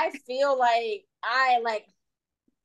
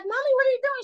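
put-on very high, childlike question; little-girl voice; much faster than usual. Daughter calling mommy in the morning, high and childlike. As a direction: pipe up high like a small child.

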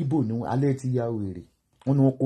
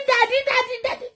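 high mock daddy cry. Vlogger quoting the video's daddy cries in a high mocking squeal. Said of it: "ó ní".

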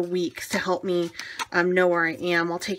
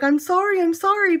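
high, pleading sorry to the paper; hammed-up apology, much higher; mock apology; 10 semitones higher, 5 dB louder than usual. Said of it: "and I'm like".

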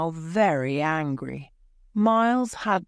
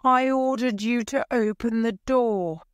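cried out; 6 semitones higher than usual. A narrator's reading. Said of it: "cried Edward".

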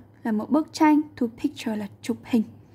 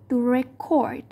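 record stressed on the second syllable, re-CORD. Shown as a demonstration. Teacher giving a verb example, record stressed on its second syllable. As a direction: lean on the end of record. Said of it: "được đánh trọng âm vào âm thứ hai".

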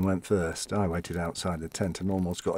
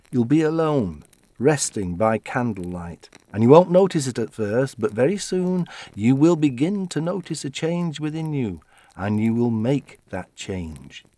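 mystic fortune teller; 4 semitones higher, 4 dB louder than usual. Acted. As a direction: intone it like a seer reading fate. Fortune teller's prophecy voiced.

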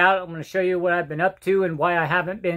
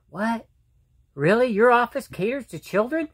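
surprised; 3 semitones higher than usual. Retold or imitated. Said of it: "And they're like".

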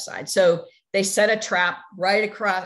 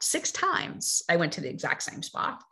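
hushed whisper, same words again; whispered, letting it sink in; whispered repeat; 5 dB quieter than usual. Shown as a demonstration. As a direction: drop it to a whisper for effect. Repeats line, second whispered.

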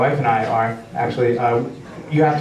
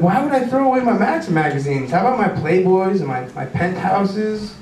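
indignant mock protest; 6 semitones higher than usual. Comic retells his indignant reply.

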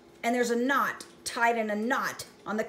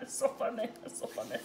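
real laughter; 6 dB quieter, much faster than usual. Real, not acted. Laughing at pun.

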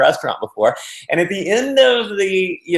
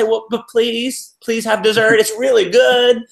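begging waiter; 4 semitones higher than usual. Retold or imitated. Waiter pleading with diners to order dessert, hammed-up begging. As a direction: beg like a desperate waiter.

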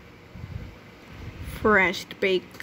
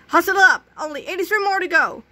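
loud, higher barked coach call; coach yelling; 7 semitones higher, 4 dB louder than usual. Acted. Coach hollers at kids running laps, loud. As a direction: bark it across the track.

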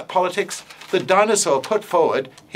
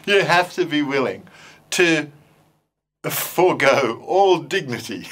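laughing through the words; cracking up mid-sentence. Real, not acted. Teacher laughing about forgoing dignity with puppets, laughing.

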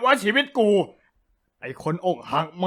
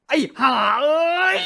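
crying curse; 7 semitones higher than usual. Acted. Cursing friend, crying out.

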